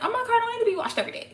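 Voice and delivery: very high, fast mock protest; incredulous comeback. Answering critics who demand a daily car wash, playfully incredulous. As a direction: squeak out a quick, playful objection.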